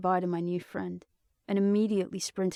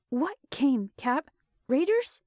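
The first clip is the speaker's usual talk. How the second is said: frightened; 7 semitones higher, 3 dB louder, slower than usual. Acted. Frightened questions over radio.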